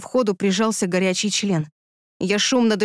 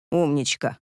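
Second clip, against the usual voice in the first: pleased whisper; 7 semitones lower than usual. A narrator's reading. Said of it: "довольно прошептал он".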